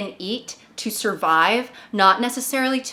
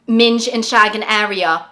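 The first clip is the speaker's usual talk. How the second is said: mock alarm announcement; 4 dB louder than usual. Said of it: "this girl on TikTok".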